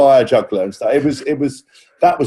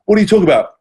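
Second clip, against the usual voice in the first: retold disbelief; 9 semitones higher, much faster than usual. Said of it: "I was like".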